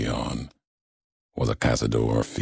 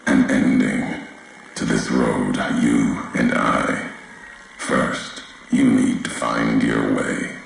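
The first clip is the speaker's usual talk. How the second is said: louder, solemn voice coming over a transmitter; echoing broadcast voice; 4 dB louder than usual. Acted. A distant figure addressing the courier, solemn broadcast voice. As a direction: speak like a message carried across a wasteland.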